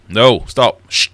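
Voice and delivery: loud urgent unvoiced whisper. Real, not acted. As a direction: hiss it to stop the device. Hushing the smart speaker.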